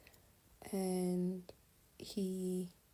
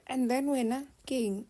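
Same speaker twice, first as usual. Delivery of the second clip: loud, high-pitched mock challenge; exaggerated retold "what's going on?" outcry; imitated startled demand; 5 semitones higher, 7 dB louder than usual. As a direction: call it out as a bewildered brother. Brother reacts to her screaming.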